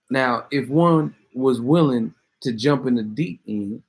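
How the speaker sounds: slow, wordy mock-sophisticated rapper impression. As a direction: draw out the formal phrasing, hood but sophisticated. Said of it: "someone say you talking like Ty".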